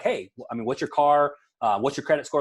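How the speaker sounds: a lightly demoed breezy, confident ask. Shown as a demonstration. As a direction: ask it straight, like it's routine. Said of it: "ask someone with confidence".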